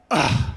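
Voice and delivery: short low grunt, imitated; imitated passenger reaction. Passenger answering her driver's meltdown with a low ugh. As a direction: give one brief unimpressed ugh. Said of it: "was to go like this".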